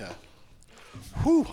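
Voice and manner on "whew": mouth burning from spicy food. Real, not acted. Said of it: "now I'm on fire".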